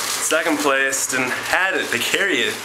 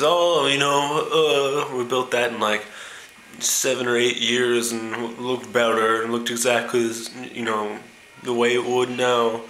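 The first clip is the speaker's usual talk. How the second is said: bragging American tourist. Retold or imitated. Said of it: "The American says".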